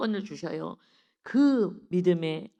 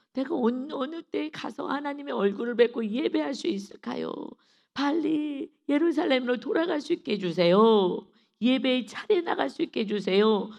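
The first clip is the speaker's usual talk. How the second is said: higher-pitched, insistent plea; pleading prayer; 5 semitones higher, 4 dB louder than usual. Acted. Psalmist begging God to let him return to worship, pleading. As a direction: plead earnestly, pitch lifted.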